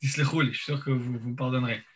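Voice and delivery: numb mouth after anesthesia; numb from the dentist. Real, not acted. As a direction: speak through a numb mouth. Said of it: "donc je parle un peu lentement".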